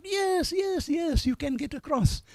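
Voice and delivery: high eager crowd answer; lightly voiced crowd shouting yes; crowd calling back. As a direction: voice the cheering crowd from below.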